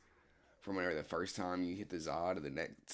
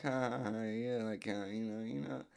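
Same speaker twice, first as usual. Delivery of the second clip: higher, nervous fake laugh; awkward laugh; 4 semitones higher than usual. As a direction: laugh it off like a kid trying to play it cool. Awkward laugh trying to be smooth.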